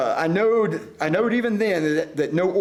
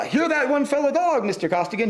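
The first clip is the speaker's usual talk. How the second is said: yell; 7 semitones higher than usual. A narrator's reading. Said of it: "he yelled".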